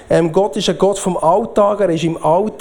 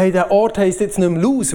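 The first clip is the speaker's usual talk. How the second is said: mildly excited, higher-pitched announcement; enthusiastic quote; 4 semitones higher than usual. Retold or imitated. Jakob renaming the place after meeting God, enthusiastic. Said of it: "er war so begeistert gewesen".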